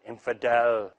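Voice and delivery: low, mock-sinister "Infidel"; growl-free but low and pointed, imagined fanatic's taunt; mock menacing. Speaker parodies an imagined Muslim taunting a passer-by, low and mock-menacing.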